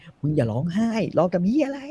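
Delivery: เสียงสูงขึ้น ช้าๆ ดุแบบแกล้งๆ; ทำเป็นพ่อดุลูกขำๆ เสียงสูง ช้า; ดุลูกแบบล้อเลียน. Retold or imitated. พ่อดุลูกที่ร้องไห้. (พ่อดุลูกที่ร้องไห้ เสียงสูง ช้า แบบล้อเลียน)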